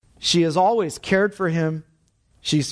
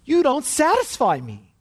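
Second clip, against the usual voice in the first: cold husband; 8 semitones higher than usual. Retold or imitated. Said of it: "See the difference".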